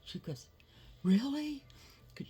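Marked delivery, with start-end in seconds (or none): 1.0-1.6 high, loud delighted question; excited grandma. Retold or imitated. Grandma thrilled to watch movies with grandson, high excited question. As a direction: let grandma light up with joy.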